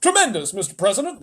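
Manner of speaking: very high, loud praise; excited exclaiming. Acted. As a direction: gush with admiration. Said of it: "they all exclaimed".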